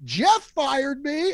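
high, drawn-out announcement; mock holler. Storyteller walking out after being fired, high mock holler. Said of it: "at, like, the top of my lungs".

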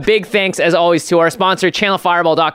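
laughing through the words; giggling as he starts talking. Real, not acted. Laughing into the sponsor read.

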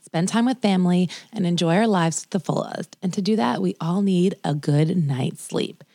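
measured, deliberate sponsor read; podcast ad read. Acted. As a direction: read the sponsor copy smoothly, stretching the key phrases. Reads a sponsor ad for bedding.

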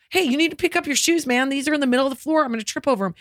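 emphatic. Retold or imitated. Mother telling kids to pick up shoes, emphatic. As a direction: retell an emphatic parental telling-off. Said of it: "I'll be emphatic".

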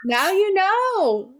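high, very slow, drawn out; slow emphatic. Real, not acted. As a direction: stretch each word for emphasis. Repeated punchline, slow emphasis.

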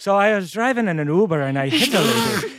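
thick, overdone Irish accent; Irish accent pushed to full caricature; heavy Irish accent. Shown as a demonstration. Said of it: "if it has, like, an Irish accent".

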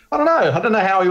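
high, flustered stammer of a caught-out man; flustered interviewer. Pretend. Host mocks the male interviewer with a high flustered stammer. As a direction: play the stumped interviewer who has no answer. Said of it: "he should have just gone".

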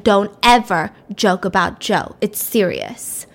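slow, low, grave warning; stern warning. Retold or imitated. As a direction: lay down the law gravely. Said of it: "And she was mad".

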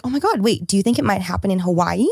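mildly excited retold question, lifted at the start. Quoting Chesko asking about Hawaii, mildly excited. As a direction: imitate a friend's hopeful, everyday excitement. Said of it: "a normal, just excited question".

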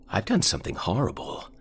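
put-on old man voice. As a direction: croak it like a frail old man.

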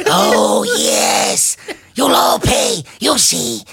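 high frantic shouting threat; frantic elf king. Retold or imitated. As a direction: rant it frantically. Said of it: "All frantic".

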